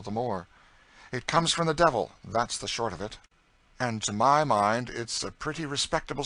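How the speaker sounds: a lightly voiced Southern gentleman turned serious; earnest gentleman. A narrator's reading. St. Clair earnestly condemns slavery to his astonished cousin, serious. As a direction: speak with sudden conviction.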